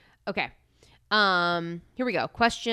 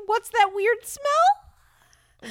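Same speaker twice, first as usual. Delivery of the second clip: slow dramatic read; 9 semitones higher, much slower than usual. Shown as a demonstration. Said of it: "The question's just".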